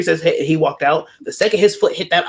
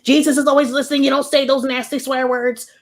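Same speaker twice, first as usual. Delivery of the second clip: prim churchy mom; 9 semitones higher than usual. Retold or imitated. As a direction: mimic mom's prim scolding about swearing. Mom scolding about cursing.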